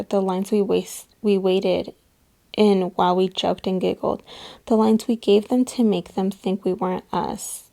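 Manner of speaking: tender, measured reading of a love poem. Acted. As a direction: read it like a heartfelt letter. Reads a love poem aloud.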